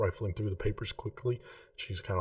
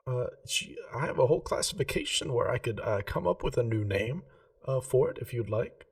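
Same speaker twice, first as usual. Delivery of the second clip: a lightly voiced, slightly higher shopkeeper, polite and earnest; a hint of a prim gem-shop lady, keen on geometry; Remy the jeweller; 4 semitones higher than usual. Remy offers a new name.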